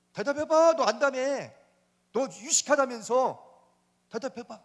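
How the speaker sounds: mocking God's demand; demanding challenge. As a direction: press him to answer. God demanding answer from Job.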